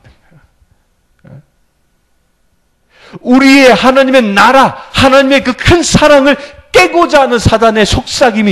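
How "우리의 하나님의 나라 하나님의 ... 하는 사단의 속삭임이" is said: high, loud pulpit exhortation; impassioned sermon surge, raised voice; forceful preaching. Real, not acted. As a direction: preach it out with full conviction.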